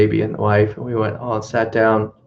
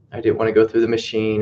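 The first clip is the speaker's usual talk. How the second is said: put-on valley girl voice; faster than usual. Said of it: "like a valley girl".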